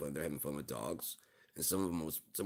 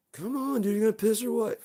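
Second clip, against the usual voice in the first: far higher, louder fed-up whine; exasperated squeal; 10 dB louder than usual. Acted. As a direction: lose patience completely, pitched way up. Exasperated waiting for the dog.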